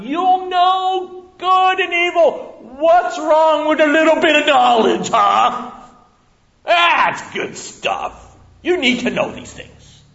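high, loud, slow sly tempter; tempting serpent. Acted. Serpent luring Eve toward the fruit, high and loud. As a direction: dangle it like a prize.

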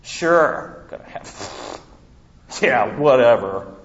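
scoffing, laughing through the words; sarcastic dismissive laugh. Retold or imitated. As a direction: brush it off like it's absurd. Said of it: "It was sarcastic laugh".

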